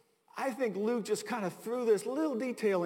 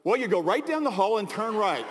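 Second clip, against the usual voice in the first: put-on loud, plain-spoken American accent; 3 semitones higher, 5 dB louder than usual. French attendant gives directions, in a surprisingly American accent. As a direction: answer the tourist in broad everyday American. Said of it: "in his best American accent".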